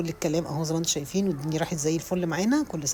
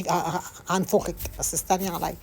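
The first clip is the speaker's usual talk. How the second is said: mock threat; slower than usual. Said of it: "هقول هديكي".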